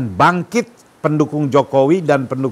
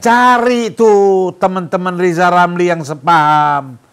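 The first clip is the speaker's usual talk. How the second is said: raised, insistent commanding call; emphatic order; 3 semitones higher, 4 dB louder than usual. Acted. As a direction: push each command out firmly. Acted orders to the government.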